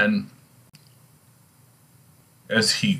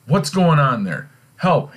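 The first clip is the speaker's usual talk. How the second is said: high, raised cry from hiding; acted alarm; 7 semitones higher, 4 dB louder than usual. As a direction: call out in storybook alarm. Hidden Polonius shouts in alarm.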